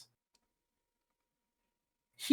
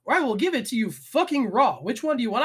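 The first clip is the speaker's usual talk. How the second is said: higher, pressing challenge; retold ultimatum; 4 semitones higher, 4 dB louder than usual. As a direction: give him a stern ultimatum. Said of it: "I'm like".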